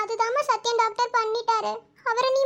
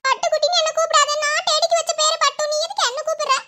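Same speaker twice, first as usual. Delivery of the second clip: put-on high, raised-voice child's objection; indignant protest; 4 semitones higher than usual. Child scolding aunt over a pet name, indignant.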